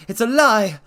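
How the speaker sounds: high, loud furious yell; panicked accusing yell. Acted. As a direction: yell it at him. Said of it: "he yelled".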